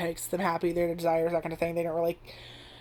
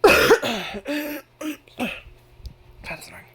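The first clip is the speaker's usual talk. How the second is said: coughing; 8 semitones higher, 6 dB louder, much slower than usual. Real, not acted. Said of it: "when you're fucking sick".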